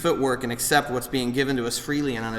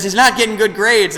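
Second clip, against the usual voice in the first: quoting wife; 8 semitones higher, 7 dB louder than usual. Retold or imitated. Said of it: "She says".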